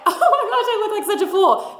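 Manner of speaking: high, laughing, embarrassed giggle; laughing at yourself. Retold or imitated. Catching her reflection mid-dance, laughing at herself. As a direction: laugh at your own silliness. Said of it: "catch a reflection in the window".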